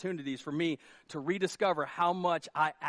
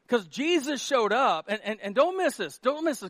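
normal talking voice

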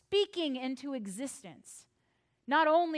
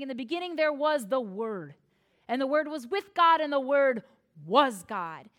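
solemn scripture proclamation; 6 dB louder than usual. Acted. Reading John's opening verse aloud.

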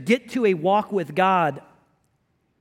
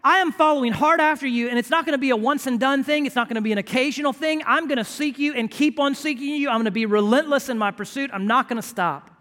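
pleading prayer; 4 semitones higher than usual. Pretend. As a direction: beg God like Jacob wrestling. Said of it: "where we say".

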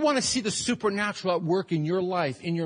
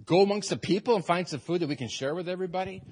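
mock baffled disciples repeating the request; doubtful, incredulous questioning; puzzled disbelief; faster than usual. Disciples doubting Jesus' request, mildly incredulous. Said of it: "scratching their head and thinking".

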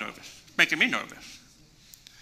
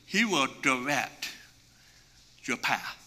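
soft reading; 5 semitones lower, 8 dB quieter, slower than usual. Acted. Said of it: "in another translation".

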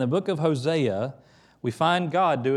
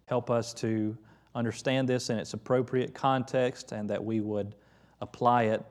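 pastor praying with the congregation; prayer; 2 semitones lower than usual. Acted. Leads closing prayer.

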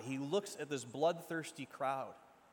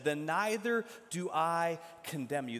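proclaimed forgiveness; 5 dB louder than usual. Acted. Preached climax with music.

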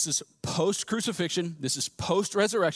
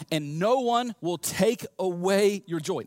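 slow, spaced-out "no one will take away"; emphatic promise; much slower than usual. Acted. Jesus promising lasting joy, slow and emphatic.

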